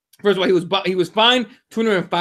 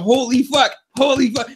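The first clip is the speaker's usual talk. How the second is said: mildly awed, higher exclamation; retold amazement; 4 semitones higher than usual. Fan retells chatting with a friend, imitated astonishment. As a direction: repeat it like a stunned spectator.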